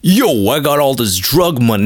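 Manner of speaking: put-on caricatured street gangster accent; mock gangster accent. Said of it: "now let me do an accent".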